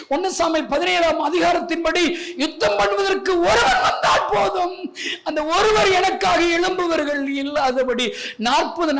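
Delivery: high, drawn-out cry of lament; anguished pulpit wail, pitched high; impassioned preaching lament. Acted. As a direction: preach God's grief at full force. Preaches God's lament at full force.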